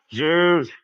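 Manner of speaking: drawn-out animal call; long animal-noise delivery; racist farm animal. Acted. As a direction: moo the word like livestock.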